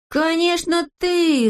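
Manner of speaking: emphatic high-pitched retort; accusing cry. A narrator's reading. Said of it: "закричали тут все".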